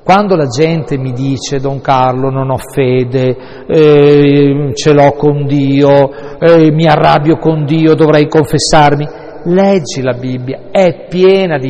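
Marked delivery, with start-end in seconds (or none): 1.6-9.1 a sing-song, louder whining believer; complaining parishioner. Retold or imitated. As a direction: mimic a grumbling parishioner, half chanted. (imitazione cantilenante di un fedele che si lamenta)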